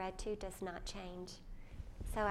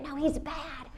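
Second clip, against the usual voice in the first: put-on little boy voice; 6 semitones higher, 6 dB louder, slower than usual. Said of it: "son retorts in retold scene".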